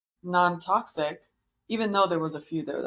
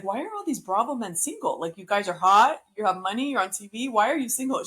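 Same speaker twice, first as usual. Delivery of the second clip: lightly imitating a blunt host, pitched up; blunt interviewer; 3 semitones higher than usual. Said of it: "but she's so blunt".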